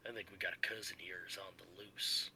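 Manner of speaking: hushed whisper. Acted. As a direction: keep it secret, whisper. Character ends the report whispering.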